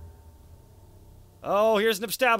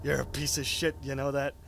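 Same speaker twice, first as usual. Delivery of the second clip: song's voice; 9 semitones lower, 7 dB quieter, faster than usual. Retold or imitated. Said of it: "the song is like".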